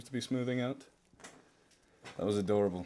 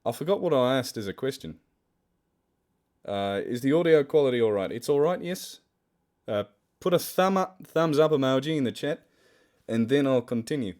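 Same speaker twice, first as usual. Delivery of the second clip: put-on loud amateur Australian accent; playful mock-Australian, pitched out to the audience; 6 dB louder than usual. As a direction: project in a shaky attempt at Australian. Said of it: "I don't think my Australian accent's very good".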